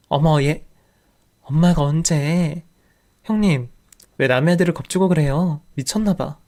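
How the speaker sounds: sister-in-law caught out, slow defensive "엄마가 언제?"; lightly voiced indignant woman; flustered denial.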